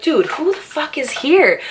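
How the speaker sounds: high, slow, baffled snap; who on earth is knocking now; annoyed surprise. Retold or imitated. Annoyed at the door, a teen's baffled high snap. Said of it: "And I'm like".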